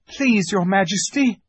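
high, anxious plea; timid boy appeasing a tyrant; pleading boy. A narrator's reading. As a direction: beg the queen in a small high voice. Boy pleads with angry witch.

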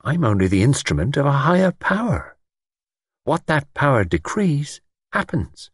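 self-important lord. A narrator's reading. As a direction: declare it from on high, measured at the end.

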